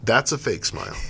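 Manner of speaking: level, unmoved delivery with a put-on smile; fake smile. Shown as a demonstration. Host showing co-host a phony smile, fake-smile voice. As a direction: say it through a forced, artificial smile. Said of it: "our eyes can see authenticity with smiles".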